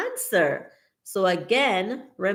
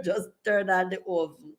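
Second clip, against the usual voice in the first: laughing; 3 dB quieter than usual. Retold or imitated. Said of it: "he say".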